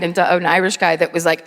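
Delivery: normal talking voice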